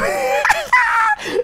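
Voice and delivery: very high squealing laugh; shrieking laugh. Real, not acted. Touching the textured wart on camera, giddy squealing laugh.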